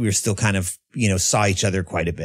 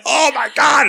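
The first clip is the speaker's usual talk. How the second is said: much higher and louder, delighted; excited realization; 6 dB louder than usual. Retold or imitated. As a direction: burst out with wonder. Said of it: "And I went".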